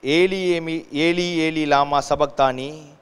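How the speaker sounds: loud scripture cry to God; projected, declaimed outcry. Acted. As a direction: call it out loudly, as from the cross. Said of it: "cried out with a loud voice".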